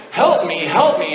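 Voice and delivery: mild mock cry for help, sudden pitch jumps; retold panicked yell. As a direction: imitate a panicked friend without full volume. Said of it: "he begins yelling".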